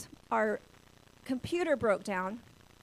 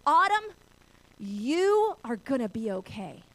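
yelling over; 7 dB louder, slower than usual. Retold or imitated. Father calling to daughter across a ravine, yelling over. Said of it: "he yells over to me".

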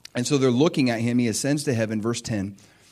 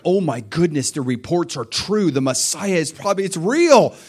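excited realization; 3 dB louder than usual. Acted. Disciples realizing the reports are true, growing excited. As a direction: let acted excitement mount as it sinks in. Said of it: "They're excited".

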